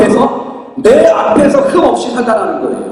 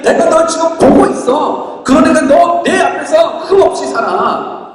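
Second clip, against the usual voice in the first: tender voice of God; 3 semitones higher, slower than usual. Retold or imitated. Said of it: "그 사랑하시는 하나님이".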